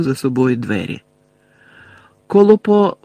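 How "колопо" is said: high, urgent spell cut short; обірване закляття. A narrator's reading. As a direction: begin calling a spell, break off abruptly. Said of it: "почала Герміона, та не встигла закінчити". (вигук обірваного закляття)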